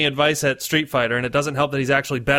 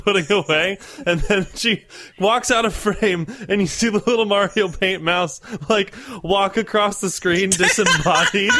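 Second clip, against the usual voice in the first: normal talking voice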